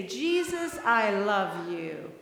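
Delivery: slow lead-in prayer. Shown as a demonstration.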